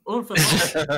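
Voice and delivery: loud Haz-accented "Unfezant". Shown as a demonstration. Haz defends his own way of saying it, in Haz accent. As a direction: hit "Unfezant" in the French-tinged Haz accent. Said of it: "You're getting the Haz accent".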